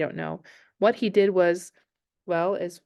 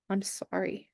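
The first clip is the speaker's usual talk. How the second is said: soft, sobbing apology; sobbed; 7 dB quieter, slower than usual. Acted. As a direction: get it out through a sob. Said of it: "she sobbed finally".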